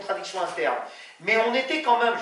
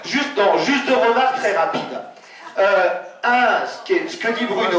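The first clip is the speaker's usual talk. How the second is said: speaking too loud for the room; loud, carrying voice in a small room; too loud indoors; 5 dB louder than usual. Real, not acted. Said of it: "Moins fort, moins fort".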